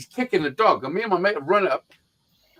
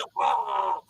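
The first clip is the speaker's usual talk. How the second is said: higher strangled choking noise; imitated choking; 5 semitones higher, 4 dB quieter than usual. Showing friends how the man choked, strangled noise. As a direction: mimic someone gasping in a headlock. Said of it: "he's going".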